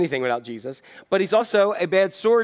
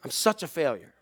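despairing Peter. Retold or imitated. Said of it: "He probably thought".

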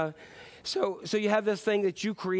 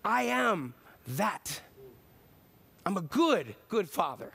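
gentle God; 2 semitones higher than usual. Pretend. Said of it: "I hear God going".

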